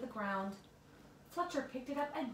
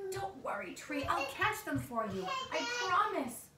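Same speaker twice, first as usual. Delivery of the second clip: eager promise; 7 semitones higher, 3 dB louder than usual. Acted. Promises tree amid wind.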